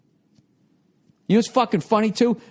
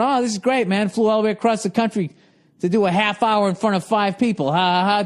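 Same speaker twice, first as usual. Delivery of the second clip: sarcastic onstage remark; 2 semitones higher than usual. Retold or imitated. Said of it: "I'm addressing it".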